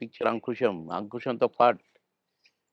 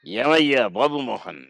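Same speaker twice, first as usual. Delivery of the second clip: slow, drawn-out imitation of Mohan Babu; mock the star's teasing drawl; Mohan Babu impression. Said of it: "Mohan Babu గారు ఎట్లా అంటాడు".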